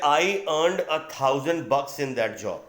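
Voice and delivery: "I earned a thousand bucks in that job" read out slowly, word by word; slow example reading. Shown as a demonstration. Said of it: "जैसे". (उदाहरण को धीरे-धीरे, साफ़-साफ़ पढ़ना)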